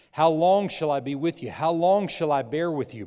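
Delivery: loud, stern and exasperated; stern rebuke. Acted. Jesus rebuking the faithless crowd, loud and exasperated.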